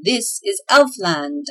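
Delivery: slow triumphant call; shouted. Acted. Elf guide calls out on reaching the cave, slow proud shout. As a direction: announce the land proudly, slowly.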